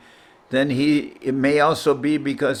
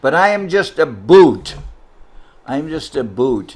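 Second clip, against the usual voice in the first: emphatic protest; 2 semitones higher, 8 dB louder than usual. Retold or imitated. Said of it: "And he said".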